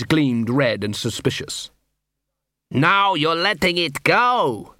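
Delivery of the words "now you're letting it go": moaning. A narrator's reading. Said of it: "moaned a dwarf".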